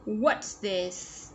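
WHAT'S THIS with clear S endings, TH with tongue forward; careful model of "What's this", both final S sounds audible. Shown as a demonstration. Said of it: "S ending sound".

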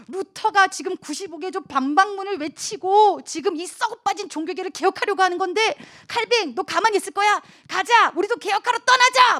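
rally a reluctant friend to the cause; radical friend urging. Acted. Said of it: "신앙적으로 급진적인 친구들을".

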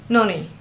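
noni with NO- punched, falling away on -ni; stress on first syllable. Shown as a demonstration. Learner showing viewers the first variant, first-syllable stress. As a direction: hit the first syllable of noni, let the second drop. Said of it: "emphasis goes on the first syllable".

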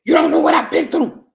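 comically deep bass defence; deep soul-crooner voice. Acted. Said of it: "you start sounding like a rapper".

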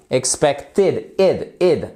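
"expected", then its ending "id", "id" alone; short-I ending. Shown as a demonstration. Teacher drills the word ending for learners, careful pronunciation. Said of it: "c'est un I court".

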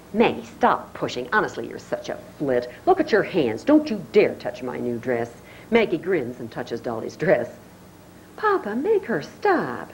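put-on a touch of a snooty older sister; lightly voiced haughty girl; Dolly voice. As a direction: sniff at her sister in disdain.

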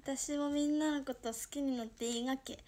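moe confession in Toyama dialect. Shown as a demonstration. Streamer asks to love the viewers, Toyama dialect. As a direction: ask coyly in Toyama dialect. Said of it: "富山弁でやってみっか".

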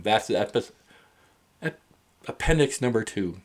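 stumbling over the word, restarting it; halting false starts before the word comes out; real word-finding struggle with broken-off syllables; aphasic stumbling. Real, not acted. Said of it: "Pardon me, I have, you know, aphasia".

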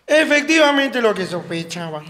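deliberate imitation of a medical diagnosis; doctor. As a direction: pronounce it like a pompous physician. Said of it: "El doctor".

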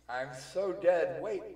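loud, high, drawn-out wail; hammed-up doom; mock despair. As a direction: wail it slowly like you are doomed. Neptune believes she is doomed.

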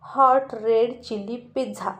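slow, deliberate spiteful order; angry order. Acted. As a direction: bite out each word in spite. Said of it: "Aryan चिडून स्वीटीकडे बघून म्हणाला".

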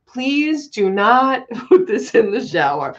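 reads the memo, breaking into laughter; laughing mock memo read; memo read while laughing. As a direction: quote the warning through giggles. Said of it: "Summers keeps putting up the memos".

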